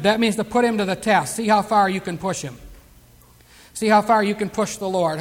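normal talking voice

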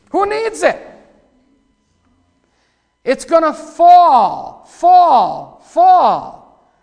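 high, loud, drawn-out fall, fall, fall; gleeful shout. Acted. Preacher gloating to the congregation over the cathedral, loud and high. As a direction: crow it out as it comes down.

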